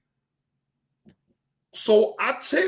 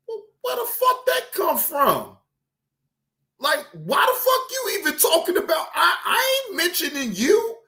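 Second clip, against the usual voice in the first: retold outburst; 3 semitones higher than usual. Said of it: "I'm like".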